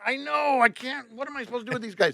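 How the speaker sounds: high, hurried retold protest; helpless exasperation. Driver protesting to the cop about the tourists, high and exasperated.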